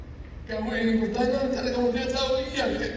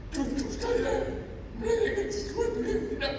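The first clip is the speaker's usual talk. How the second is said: soft laugh; 7 semitones higher, 5 dB quieter than usual. Acted. Grandfather laughs off the question.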